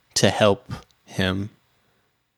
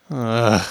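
weary groan. Real, not acted. Reacting to the school vanishing.

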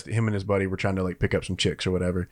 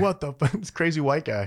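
higher-pitched mock bewilderment; retold disbelief; 6 semitones higher than usual. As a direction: play the freaked-out guy, amused. Retold reaction of fleeing man.

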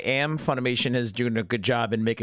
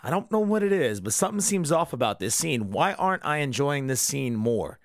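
puzzled viewer voice; 3 semitones higher than usual. Retold or imitated. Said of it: "He's like".

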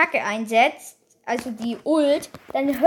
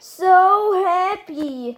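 drawn out, higher mock-happy line; Sandy imitation; 5 semitones higher, much slower than usual. Player copying a game character's voice line, slow imitation. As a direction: lightly imitate a dreamy game character, stretched out. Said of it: "wie Sandy".

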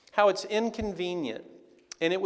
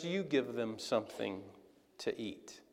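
much softer and lower, last words nearly whispered; hushed command; 5 semitones lower, 9 dB quieter than usual. Retold or imitated. Jesus quietly tells his disciples to feed them, hushed. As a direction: drop almost to a whisper. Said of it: "And Jesus says".

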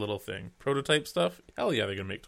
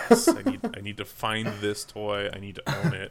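excited gasp. Retold or imitated. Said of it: "I'm like".

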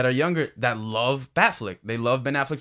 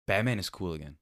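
softer, lower, relieved retelling; 5 semitones lower, 6 dB quieter than usual. Retold or imitated. Retelling a friend's verdict after the film, with quiet relief. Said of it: "the way he said it was just, like, relief".

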